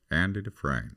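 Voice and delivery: lightly voiced film narrator; a hint of a measured narrator; Morgan Freeman. Shown as a demonstration. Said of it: "what about the guy in".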